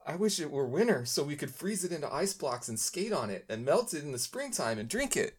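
put-on dreamy kid marveling at the beer; a hint of a wide-eyed little boy; little boy wonder. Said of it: "like, little boy wonder".

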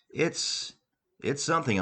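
hesitant stammer; stuttering. Acted. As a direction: trip over the first words. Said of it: "stuttering in the process".

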